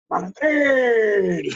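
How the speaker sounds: imitated drawn-out holler; grito imitado. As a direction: call it out like a coach across the field. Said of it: "Y me gritaba". (grito imitado, llamando de lejos)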